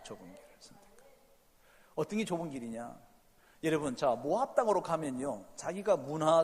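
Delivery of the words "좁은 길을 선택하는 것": much softer, quick echo; soft repeat. Shown as a demonstration. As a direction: let it drop to near a murmur. Quiet repeat of key phrase. (작고 빠르게 되뇌듯)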